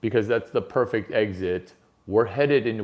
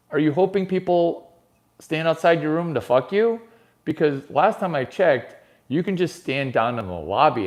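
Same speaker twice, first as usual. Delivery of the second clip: mock rant; 5 semitones higher than usual. Ranting at Brady.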